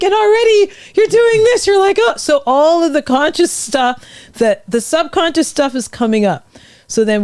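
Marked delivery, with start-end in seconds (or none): 0.0-2.1 mock nervous talk.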